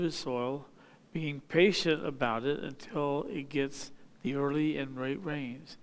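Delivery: measured, solemn Bible reading; scripture reading. Acted. Preacher reading James to the congregation, solemn scripture reading. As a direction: read the verses steadily to the congregation. Reads scripture passage aloud.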